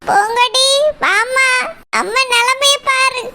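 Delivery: slow, tearful plea; tearful lament. Acted. Injured mother shows daughter her state, tearful lament. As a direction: draw it out as a sorrowful wail.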